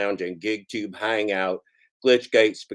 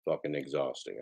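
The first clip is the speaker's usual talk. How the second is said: weary complaint; 8 semitones lower, 11 dB quieter than usual. Real, not acted. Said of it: "It's exhausting".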